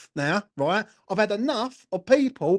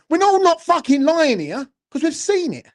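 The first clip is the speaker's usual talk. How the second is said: louder and higher, furious insistence; angry shout; 5 semitones higher, 5 dB louder than usual. Real, not acted. Fan ranting to his viewers, shouting in anger. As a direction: bellow it out, really fed up.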